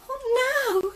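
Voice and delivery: high, whispered panic; panicked whisper. Acted. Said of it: "she panicked".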